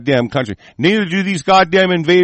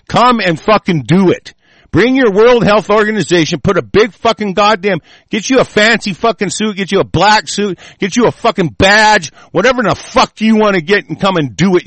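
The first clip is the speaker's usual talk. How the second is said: angry taunt; 5 semitones higher, 4 dB louder than usual. Real, not acted. Taunting the World Health Organization.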